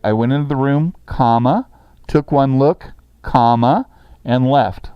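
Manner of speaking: says "comma" aloud at each pause; reading with spoken commas. Shown as a demonstration. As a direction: dictate it, voicing every "comma" as a word. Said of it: "And I'm saying the word comma".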